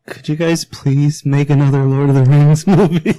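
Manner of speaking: half-laughing plea; mock pleading. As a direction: beg politely, rising into a laugh. Mock quote of Brett pleading.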